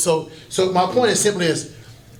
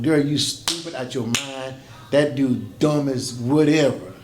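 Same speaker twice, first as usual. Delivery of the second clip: blunt dad talk; 2 semitones lower, slower than usual. Retold or imitated. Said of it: "This a daddy going".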